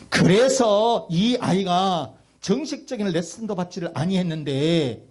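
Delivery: preacher driving the story home; emphatic preaching. Real, not acted. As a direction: proclaim it to the congregation. Preaches to the congregation.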